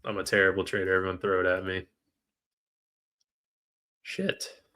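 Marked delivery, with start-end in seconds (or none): 4.0-4.6 whispered curse. Real, not acted. Trade missed.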